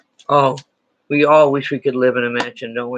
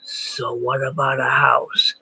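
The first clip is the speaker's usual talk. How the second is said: mock skeptical student; slower than usual. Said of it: "I know you're looking at me going".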